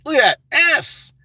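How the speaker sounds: drawn-out, lustful inner voice; voice in head. Acted. Inner voice on seeing a milf, lustful. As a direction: stretch it out in lewd awe. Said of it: "I have a voice in my head".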